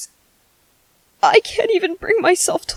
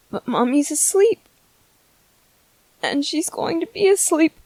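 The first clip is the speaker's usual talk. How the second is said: tender sadness; 4 dB quieter than usual. Acted. Softly telling baby mommy's gone.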